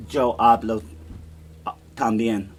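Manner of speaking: "yo hablo" with the Y as "cho" in a Chilean accent. Shown as a demonstration. Teacher demonstrating a Chilean accent, laughing. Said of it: "a Chilean accent, I'd say".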